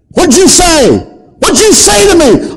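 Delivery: high, loud snarling demon. Retold or imitated. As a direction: let the demon spit back, outraged. Demon in girl answers back.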